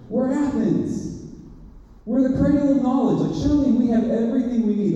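high-pitched civic boasting, mildly hammed-up; proud objection. Athenians refusing help from an outsider, mock-proud objection.

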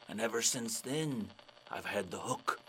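grave sea dog winding down; pirate. Acted. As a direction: drop down solemnly to close the yarn. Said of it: "And the pirate's like".

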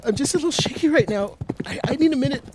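on the verge of tears. Acted. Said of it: "are you, are you crying?".

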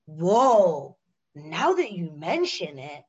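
drawn-out, mock-awed yogi voice; blissed-out yoga people. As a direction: imitate a blissed-out festivalgoer having a slow realisation. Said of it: "And they're like".

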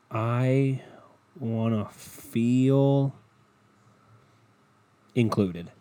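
very slow, long pauses between phrases; drawn-out emphasis. Retold or imitated. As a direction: stretch "feel" out long, then pause before "included". Restarts quote, drawn out for effect.

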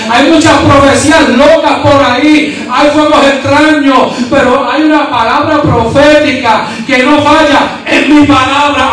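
sustained sermon fervour, key words stretched out; impassioned preaching. Acted. Preacher urging the congregation to love the Word, impassioned preaching. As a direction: preach it insistently, drawing out the final phrase.

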